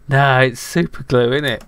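lightly voiced cockney hat; cheeky talking hat. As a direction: play the bossy hat catching you. Hat character answering.

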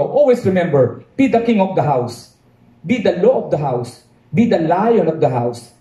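slow, weighty fatherly advice; solemn father. Acted. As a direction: lay down the law slowly like a wise father.

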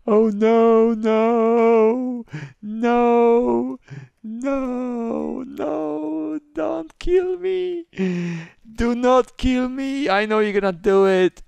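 high, drawn-out wail of terror; hammed-up high-pitched victim plea; mock pleading. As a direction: beg for your life in a slow, squealing whine. Begging the killer for life.

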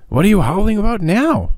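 high, mocking boyish question; teasing boy. A narrator's reading. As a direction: rib your friend for the racket. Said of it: "asked Quip".

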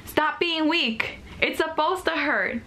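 high, mocking scold of a girl; dismissive scolding voice. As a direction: imitate someone brushing off her pain. Mimicking people who dismissed her pain.

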